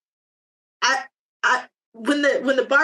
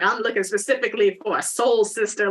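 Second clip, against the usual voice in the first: lower, smug dating-app guy; mock suitor voice; 4 semitones lower than usual. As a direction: put on a cheesy suitor. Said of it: "those types of, like".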